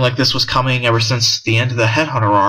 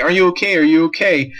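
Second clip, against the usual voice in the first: higher-pitched worried quote; freaking out; 7 semitones higher, faster than usual. Retold or imitated. Retelling the girl asking the wounded man, mock freaking out. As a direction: imitate a panicked check on someone. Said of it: "she starts freaking out".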